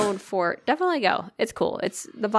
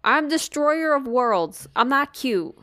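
mock indignant protest; 6 semitones higher than usual. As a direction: insist you're fierce, not cute, half-joking. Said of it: "And I was like".

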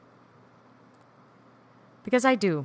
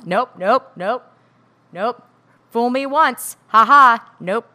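mock stubborn nope, nope, a little louder; defiant refusal; 5 semitones higher, 10 dB louder, slower than usual. Speaker mimicking herself rejecting her partner's help, scoffing. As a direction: brush every offer off with a scoffing laugh. Refusing loved one's offers.

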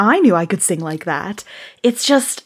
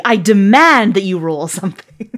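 assertive; 3 semitones lower than usual. Shown as a demonstration. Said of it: "be more assertive".

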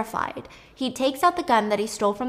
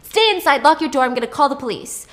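urgent, raised and higher, checking she's safe; urgent worry; 4 semitones higher, 6 dB louder than usual. Retold or imitated. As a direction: call out to her in alarm, then warn her. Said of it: "And he's like".

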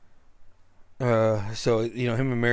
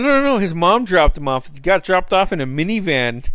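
high, loud teasing jeer; jeering drunk voice; mocking heckler; 6 semitones higher, 5 dB louder than usual. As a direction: rub it in like a smug stranger. Heckler repeats the taunt.

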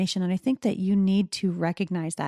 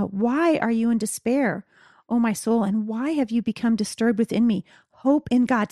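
slightly raised, measured recitation of scripture; declaring aloud; 3 semitones higher, 3 dB louder than usual. Retold or imitated. Psalmist speaking out loud to his creator, raised declaration. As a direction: speak it out with a lift in pitch. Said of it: "he's speaking out loud to his creator".

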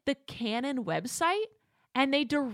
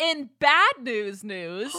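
drawn-out mock show title; slow announcer parody; 5 dB louder, much slower than usual. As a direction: announce it slowly.

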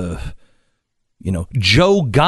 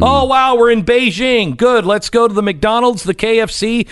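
higher-pitched mock enthusiasm of a traveler; mock-excited tourist rattling off plans; lightly mocked tourist; 5 semitones higher than usual. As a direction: play an easily thrilled tourist, sarcastically. Mimics a tourist abroad.

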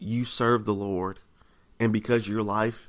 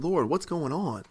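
higher, pleading but restrained questioning; respectful arguing; 4 semitones higher than usual. Acted. Believer arguing with the Lord, respectfully pleading. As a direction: argue respectfully, appealing to broken promises. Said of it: "but respectfully, you're like".

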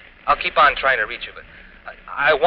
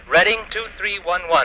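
higher, urgent repeat of the number; insistent reminder; 8 semitones higher than usual. Acted. Husband urging her to remember the number, higher. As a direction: press the number on her one last time. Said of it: "Now remember the number".

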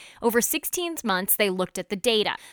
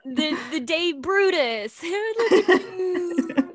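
puppy talk voice; 8 semitones higher, much slower than usual. Real, not acted. Cooing at the puppy.

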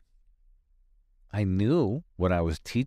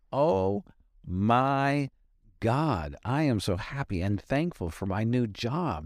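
joyful gratitude; 4 semitones higher than usual. Shown as a demonstration.

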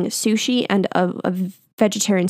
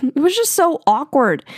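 laughing; 6 semitones higher, 3 dB louder than usual. Real, not acted. Laughing at awkward memory.

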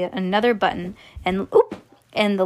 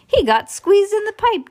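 laughing; 11 semitones higher, 6 dB louder than usual. Acted.

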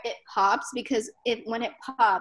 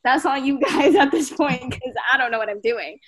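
louder, worked-up mock panic; retold freak-out; 5 dB louder than usual. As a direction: replay your own nervous rant, pushing the volume. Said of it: "I'm, like, freaking out, hyperventilating".

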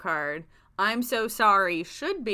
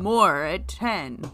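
mock newscaster; 3 semitones lower, much slower than usual. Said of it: "make me feel like a newscaster".

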